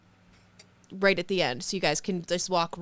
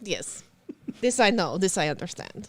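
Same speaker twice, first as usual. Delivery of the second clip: put-on Russian accent. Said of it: "The Russian accent is".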